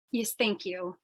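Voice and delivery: whispered, voiceless thanks; scared whisper. Acted. Dorothy whispers to the gangster after he asks for her last words. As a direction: barely breathe the words.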